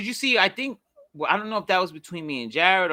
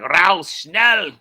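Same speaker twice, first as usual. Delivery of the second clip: mock German; 5 dB louder than usual. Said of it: "If he was German, I could be like".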